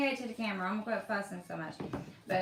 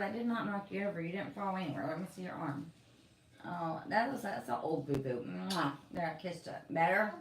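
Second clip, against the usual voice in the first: soothing mom voice; 3 semitones lower, 4 dB quieter than usual. Real, not acted. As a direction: hush it down and comfort him tenderly. Comforting hurt child, kissing boo-boo.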